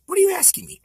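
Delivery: high-pitched impersonated retort; Rickles. Retold or imitated. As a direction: imitate a comic questioning a kid. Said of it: "He says".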